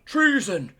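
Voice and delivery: high, loud mock shriek; shouting queen. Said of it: "she starts shouting".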